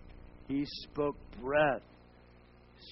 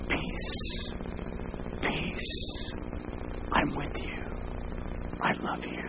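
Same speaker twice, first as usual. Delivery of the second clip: voicing God gently; much slower than usual. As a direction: whisper it as God's tender voice. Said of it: "God speaks to you".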